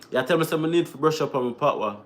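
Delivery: patois phrasing, "You tell me, say"; Jamaican patois. Shown as a demonstration. Vlogger to chat, saying it in Jamaican patois. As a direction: switch into Jamaican patois, unhurried. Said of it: "I'm trying to say that in patois".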